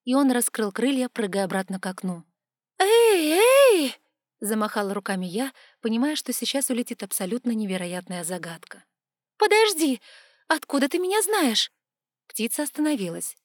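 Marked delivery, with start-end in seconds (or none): 2.8-3.9 much higher, loud "эй"; calling out. A narrator's reading. Girl calls after the leaving raven, high and loud. 9.4-11.7 high, loud pleading call; urgent call. A narrator's reading. Girl begs the raven to wait, high and loud.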